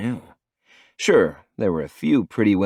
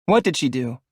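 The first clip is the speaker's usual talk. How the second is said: higher, urgent question; anxious young woman; 7 semitones higher, 3 dB louder than usual. A narrator's reading. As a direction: demand it anxiously.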